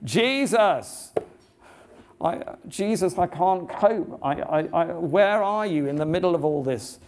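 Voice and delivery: high, pleading cry of a man at his limit; man crying out to Jesus, high and pleading. Retold or imitated. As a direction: plead upward, near despair. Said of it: "the man cries out to Jesus".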